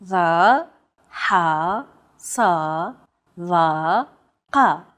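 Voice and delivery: Va, ha, sa, va, ka deep within the throat; tense, constricted throat on each isolated syllable; emphatic consonants. Shown as a demonstration. Teacher demonstrating five Arabic sounds, deep emphatic consonants. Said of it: "pronounced deep within the throat".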